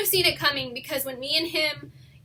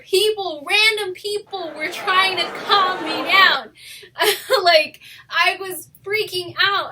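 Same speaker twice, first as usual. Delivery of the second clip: louder, higher laugh-crying; laughing through tears; 5 semitones higher, 7 dB louder, slower than usual. Real, not acted. Telling viewers of her breakdown in the store, laughing through tears. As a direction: laugh while crying over it. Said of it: "I was literally in tears".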